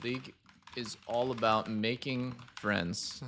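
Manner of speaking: soft, slow trial phrasing; trying out a line. Pretend. Quietly testing a line before saying it to the player. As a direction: mouth the line quietly to test it. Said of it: "Actually, no, I'm not gonna say that".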